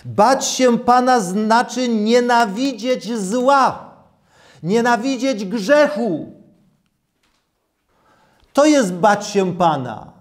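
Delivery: ordinary delivery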